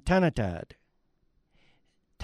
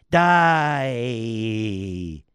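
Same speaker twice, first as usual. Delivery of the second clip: alarmed cry; 5 semitones lower, 3 dB louder than usual. Acted. Small tree learns trees die.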